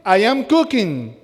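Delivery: slow, every word spelled out; slow full form, teacher modelling English; slow careful English. Shown as a demonstration. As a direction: say it slowly for learners. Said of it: "¿Cómo dice?".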